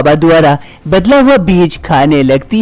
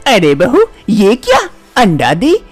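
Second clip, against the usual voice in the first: higher, astonished elder; shocked mother-in-law; 4 semitones higher than usual. Acted. Mother-in-law sees the egg instead of a baby, higher and shocked. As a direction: gasp at the egg in disbelief.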